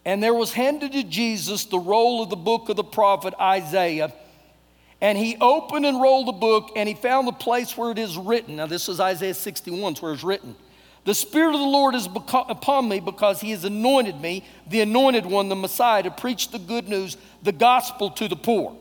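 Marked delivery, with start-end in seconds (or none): 0.0-8.6 measured read-aloud Bible voice; scripture reading. Acted. 11.0-18.7 measured read-aloud Bible voice; scripture reading. Acted.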